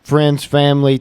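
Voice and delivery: loud, drawn-out country send-off. Real, not acted. Cohost thanks the viewers at sign-off in a loud country voice. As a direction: call it out in a big country voice. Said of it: "getting my country voice out a little bit".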